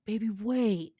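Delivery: high, loud hammed-up protest; protesting plea. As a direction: plead with her to stop. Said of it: "he protested".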